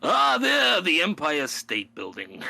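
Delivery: a laughing, lightly done New York guide. Retold or imitated. Teasing dad at the Empire State in New York accent. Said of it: "the New York voice".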